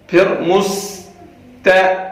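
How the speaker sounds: مست with lips drawn back on the sin; spread lips. Shown as a demonstration. Teacher modelling the sin. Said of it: "ہونٹ جو ہے وہ کھچ جانے چاہیے".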